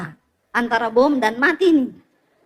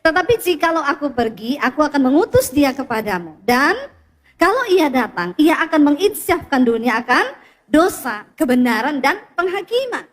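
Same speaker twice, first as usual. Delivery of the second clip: measured congregational scripture reading; reading aloud together. Shown as a demonstration. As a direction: keep the group reading steady to the end. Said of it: "baca bersama". (membaca firman bersama dengan tenang)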